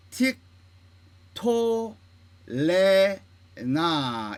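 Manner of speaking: 틱, 토, 레, 나 with a clear pause after each syllable; syllable-by-syllable demo. Shown as a demonstration. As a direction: separate every syllable and hold the vowels. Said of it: "이렇게 읽어야 됩니다". (틱, 토, 레, 나 음절마다 뚝뚝 끊어서)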